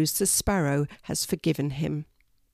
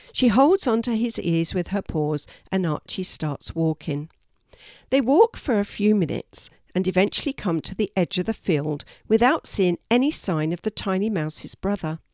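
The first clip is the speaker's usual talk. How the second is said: usual speaking voice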